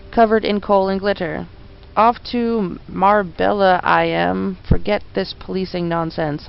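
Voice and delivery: a London bobby off on holiday; Cockney policeman. Acted. Policeman voiced in game dialogue.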